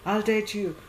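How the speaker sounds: acted reluctant yes; half-meant agreement. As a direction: give in without really meaning it. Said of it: "you're just saying it like that".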